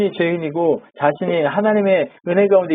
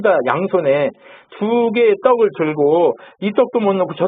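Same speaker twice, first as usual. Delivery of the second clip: preacher's mild scolding, urgent and insistent; acted rebuke. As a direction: take the people to task, pushing each phrase. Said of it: "백성들을 책망하는 일을 해요".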